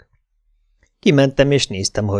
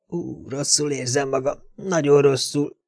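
ill and weak; 3 semitones higher, 6 dB quieter than usual. Acted. Dante turning pale, ill.

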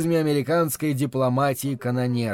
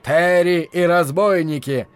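loud, slow radio announcer shout; booming announcer; 3 semitones higher, 5 dB louder than usual. Acted. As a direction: proclaim the show title grandly. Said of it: "ведущий громогласно объявил".

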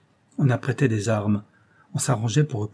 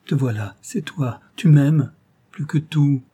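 joyful, rising higher; cry of happiness; 4 semitones higher, 4 dB louder, slower than usual. Acted. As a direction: burst out in joy at her arrival. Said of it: "poussa un cri de bonheur".

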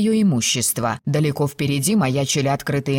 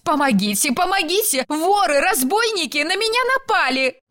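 very high-pitched cries for help; screaming for help; 12 semitones higher than usual. A narrator's reading. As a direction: cry out shrilly to summon rescuers. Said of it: "на её вопли сбегутся те". (пронзительные вопли о помощи)

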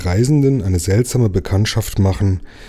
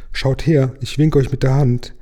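tiny voice; 6 semitones higher than usual. A narrator's reading. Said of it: "das Stimmchen".

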